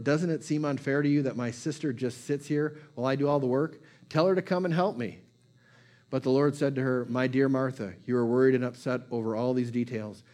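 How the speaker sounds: steady, measured Bible reading to the church; scripture reading. Acted. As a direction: read the passage plainly to the congregation. Preacher reads scripture passage.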